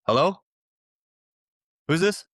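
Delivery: high, loud mock voice; landlord on the phone. Landlord coming back on the line to the caller, high mock voice. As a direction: pitch way up, a questioning "Hello?".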